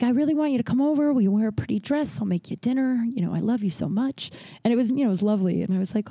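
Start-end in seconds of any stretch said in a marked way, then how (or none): 0.0-4.3 dying grandma. Retold or imitated. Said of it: "she was just like".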